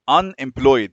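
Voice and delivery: "Unemployed" with no E sound in the last syllable; silent E. Shown as a demonstration. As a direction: say "Unemployed" ending in one closed "ployd". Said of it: "ال E مش بتتنطق".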